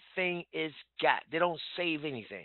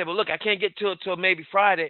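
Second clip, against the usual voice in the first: stalling prospect; 4 semitones higher, 10 dB louder than usual. Retold or imitated. Prospect's stalling reply acted.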